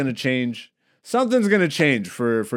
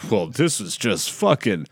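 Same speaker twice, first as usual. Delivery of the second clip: smug self-praise. Pretend. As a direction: gush over yourself like a narcissist. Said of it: "I'm not a narcissist like that".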